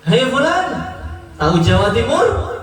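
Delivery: rousing call, lifting at each end; calling out to a patient. Acted. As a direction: hail him with rising questions. Tabib memanggil dan bertanya.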